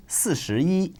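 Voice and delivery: 四十一 with the final yi high and level; first tone yi. Shown as a demonstration. Teacher showing learners, yi high and level. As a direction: keep yi flat and high at the end of 四十一. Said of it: "yi keeps its high level tone".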